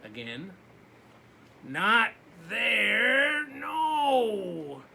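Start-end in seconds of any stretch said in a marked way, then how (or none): 1.6-4.8 voice of the dark. Acted. The dark calls the boy, booming loud. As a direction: call out as the looming dark.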